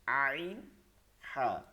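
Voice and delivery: আইন and হা drawn back into the throat; mid-throat articulation. Shown as a demonstration. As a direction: pronounce আইন, হা from the middle of the throat. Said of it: "গলার মধ্যে নিয়ে পড়তে হবে".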